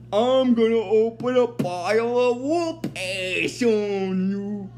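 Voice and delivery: slow, menacing voice; menacing robot threat. Retold or imitated. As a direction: threaten him slowly. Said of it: "is like".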